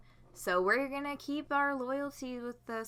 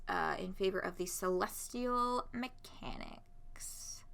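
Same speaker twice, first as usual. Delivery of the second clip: whispering; 5 dB quieter, slower than usual. Real, not acted. Aside while reading options.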